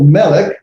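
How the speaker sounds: melech, stress on the first syllable; Hebrew word melech. Shown as a demonstration. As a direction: say melech slowly for students. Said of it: "there's our word melech".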